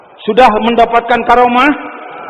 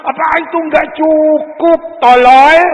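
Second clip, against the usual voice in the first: voicing Allah rebuking; 5 semitones higher, slower than usual. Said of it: "Allah berfirman".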